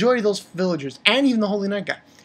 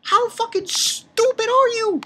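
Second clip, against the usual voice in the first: much higher, slow, stretched exasperation; disbelieving yell. Real, not acted. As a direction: drag it out in utter disbelief. Ranting at manga characters.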